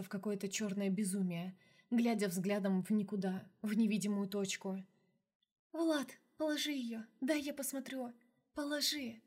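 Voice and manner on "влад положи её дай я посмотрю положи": put-on higher, urgent young witch; a lightly voiced witch, pressing. Witch Fey voiced by narrator.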